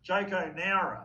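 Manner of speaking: Noura said firmly with a short na vowel, nah-ra; correcting pronunciation. Real, not acted. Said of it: "correcting the host".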